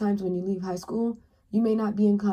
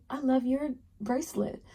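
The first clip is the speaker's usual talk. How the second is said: wrong way; 6 semitones higher than usual. Shown as a demonstration. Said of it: "Don't say it like that".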